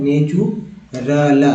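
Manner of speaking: "नेचुरल" broken slowly as ne-choo-ral; "choo" in the middle. Shown as a demonstration. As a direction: draw out "नेचुरल" with a clear "choo". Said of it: "चू पढ़ते हैं". ("नेचुरल" धीरे, बीच में चू की आवाज़)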